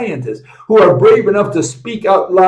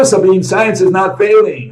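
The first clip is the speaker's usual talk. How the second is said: mock reading of title; 4 semitones higher, 3 dB louder than usual. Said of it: "video titles".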